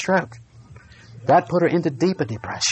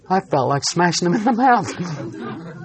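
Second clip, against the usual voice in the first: slowed, chuckling confession; laughing; 3 semitones higher, slower than usual. Real, not acted. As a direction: laugh through the line at your own temper. Laughs at his own anger.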